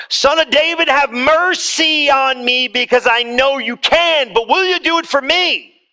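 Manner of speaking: a lightly voiced desperate plea to Jesus; mock scream. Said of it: "screaming on the side of the road".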